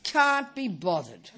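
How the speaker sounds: slow, half-laughing can't-be-bothered; lazy laughing drawl; mock lazy shrug. Shown as a demonstration. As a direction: drag it out like you can't be bothered. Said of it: "the obvious one is".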